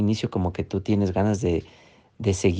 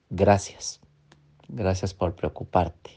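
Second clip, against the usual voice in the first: calm thanks to the inner critic; 4 semitones lower, 6 dB quieter than usual. Shown as a demonstration. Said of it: "respóndele".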